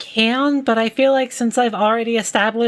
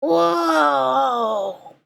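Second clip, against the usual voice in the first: surprised shout. Acted. Surprised detective.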